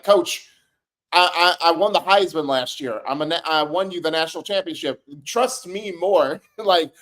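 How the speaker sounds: exasperated player begging, words stretched out at the end; pleading with coach. Acted. Player arguing with the game's coach to trust him, exasperated pleading.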